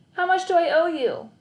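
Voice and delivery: put-on high young boy asking; boy's voice. A narrator's reading. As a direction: ask like a kid.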